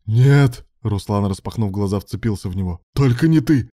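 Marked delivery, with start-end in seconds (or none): 0.0-0.7 loud frightened no; panicked cry. A narrator's reading. Husband waking from a nightmare, crying out in fear. 2.9-3.7 loud, high, desperate; cling and beg in fear; desperate plea. A narrator's reading. Husband clinging to his partner after a nightmare, desperate.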